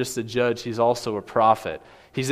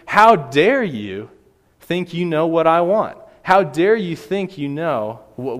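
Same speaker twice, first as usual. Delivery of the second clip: put-on raised, louder defiant terrorist voice with no accent; angry terrorist; 3 semitones higher, 5 dB louder than usual. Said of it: "I don't have a good Russian accent, so I won't try".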